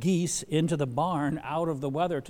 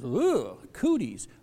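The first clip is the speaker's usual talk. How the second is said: exaggerated schoolyard squeamishness; mock disgust; 5 dB louder, much slower than usual. Preacher acting out the disciples' reaction, mock disgust. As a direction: recoil with a playful "ew".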